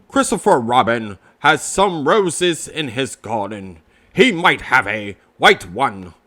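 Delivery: a hint of a wise old bird; Owl's voice. Owl offering Pooh help, lightly voiced old owl.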